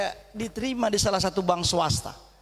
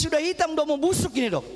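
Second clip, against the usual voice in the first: higher, half-laughing complaint; worried laughing protest; 6 semitones higher than usual. Retold or imitated. Father telling doctor it's rotting, half laughing. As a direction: laugh through the worry. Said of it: "Saya bilang".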